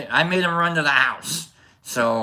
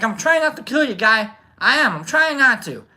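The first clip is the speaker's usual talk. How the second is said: pleading; 9 semitones higher, 3 dB louder than usual. Retold or imitated. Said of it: "And I'm like".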